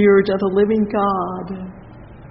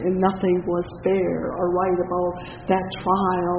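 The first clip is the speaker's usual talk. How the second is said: ordinary delivery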